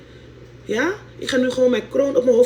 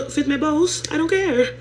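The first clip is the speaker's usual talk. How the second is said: defiant laugh; 6 semitones higher, slower than usual. Real, not acted. Uitdagend lachend.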